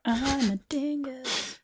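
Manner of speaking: soft slow mumble. Pretend. Mocking self-label.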